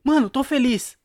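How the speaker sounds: hammed-up happy exclamation; mock happy. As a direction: announce your happiness with exaggerated energy. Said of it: "quando você tá feliz".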